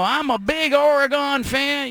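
very slow, high, drawn-out Southern drawl. Retelling a phone call from a caller to the office: Southern accent. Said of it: "a guy with a Southern accent going".

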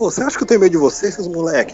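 play-acted loud, high-pitched outburst, cursing in Portuguese. Retelling telling off some kids while traveling, retelling speaking loudly. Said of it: "eu comecei a falar alto em português".

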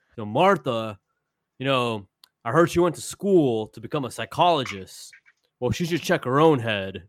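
mock furious, bitter, scorched-earth rant. Retelling an angry interview in a Bret Hart impersonation: angry Bret Hart impersonation. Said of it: "the angriest man on earth".

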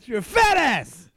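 put-on wrestler rant, high and slow. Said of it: "Scott Steiner losing it on national television".

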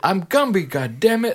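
put-on grizzled, gritty New York accent, very high pitch. Retelling a comedy skit to a coworker: grizzled New Yorker Gumby voice. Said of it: "grizzled, non-ethnically specific voice that's kind of a New Yorker".

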